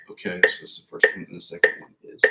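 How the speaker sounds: whispering to self. Real, not acted. Muttering to himself checking notes.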